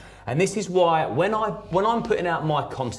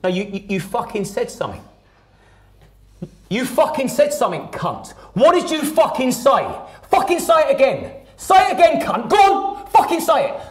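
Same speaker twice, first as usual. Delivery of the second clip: building from menace to a high, loud screamed threat; hammed-up drunk bully screaming in a kid's face; dad yelling at his frightened son, building to a shout; imitating dad's rage; 9 semitones higher, 5 dB louder than usual.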